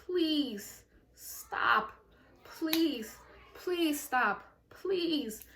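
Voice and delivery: whimpering begging, slowed right down; mock crying plea. Child begging mom to stop beating her, mock sobbing plea. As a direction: beg mommy to stop like a crying kid. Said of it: "and I'm cry".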